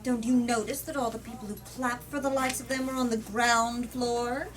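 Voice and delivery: reading a politician's speech from the book; firm, rhetorical read-aloud; story narration. A narrator's reading. Politician addressing Parliament, rhetorical speech read aloud.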